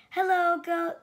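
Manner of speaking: high, loud cheerful hello; cheery greeting. Acted. Duck greeting Sheep from his bike, bright and loud. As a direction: sing out a friendly hi. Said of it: "said Duck".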